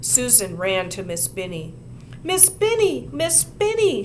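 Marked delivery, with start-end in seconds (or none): 2.2-4.0 high, loud upset plea; crying out. A narrator's reading. Susan running to her teacher, high and upset. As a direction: wail it to the teacher. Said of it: "she cried".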